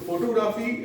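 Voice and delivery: फोटोग्राफी with full O's and long AA; wrong pronunciation. Shown as a demonstration. Teacher flags the common error, फोटोग्राफी as foto-graa-fee. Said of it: "wrong है pronunciation".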